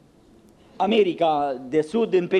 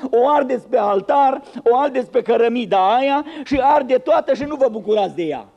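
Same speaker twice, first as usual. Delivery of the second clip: sarcastic mockery; 2 semitones higher, faster than usual. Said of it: "zeflemeaua lui Ieremia".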